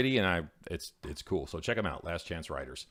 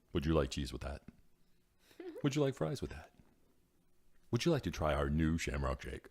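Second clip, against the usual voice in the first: drive-thru voice; 6 semitones lower, 7 dB quieter than usual. Shown as a demonstration. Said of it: "really put it on and really sound like that".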